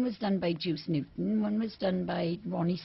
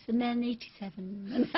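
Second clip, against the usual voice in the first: laughing; 4 semitones higher than usual. Real, not acted. Laughing at own joke.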